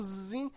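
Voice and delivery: "zin" held long; drawn-out syllable. Shown as a demonstration. Teacher pointing out the longer syllable to pupils, "zin" drawn out. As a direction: linger on "zin" with a sustained vowel. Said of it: "você demora mais".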